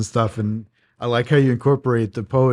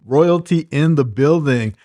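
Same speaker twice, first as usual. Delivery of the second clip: lively, lightly hyped podcast host intro; a touch of emcee punch; show-opening announcement; 3 semitones higher, 3 dB louder than usual. Acted. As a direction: welcome the audience like an announcer.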